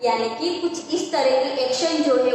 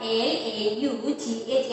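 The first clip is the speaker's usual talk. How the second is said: slow spelling. Shown as a demonstration. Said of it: "क्या है?".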